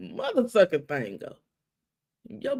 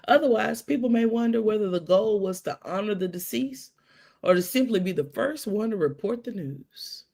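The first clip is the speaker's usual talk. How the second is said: formal read-out; 2 semitones higher than usual. Shown as a demonstration. Reading the quote to her viewers, a measured formal read. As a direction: read it like a public statement.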